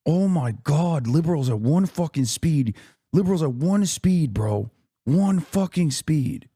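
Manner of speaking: high, drawn-out exasperation; exasperated. Real, not acted. Streamer fed up with liberals in chat, exasperated. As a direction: lament it in disbelief, stretching the key words.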